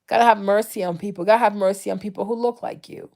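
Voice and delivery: ordinary talk, nothing marked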